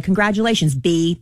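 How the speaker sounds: a hint of a laid-back rapper voice; lightly imitating a famous rapper. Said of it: "That's my rapper voice".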